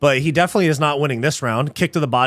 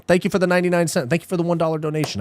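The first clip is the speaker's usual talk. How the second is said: usual speaking voice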